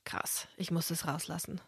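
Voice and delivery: hushed whisper to herself. Real, not acted. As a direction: breathe it out in a whisper. Aside before confessing revenge.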